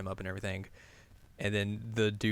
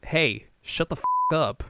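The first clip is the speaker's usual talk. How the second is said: loud, raised-voice challenge; angry mock yell; 6 semitones higher, 8 dB louder than usual. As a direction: call them out from above, loudly. She yells down at the gossipers.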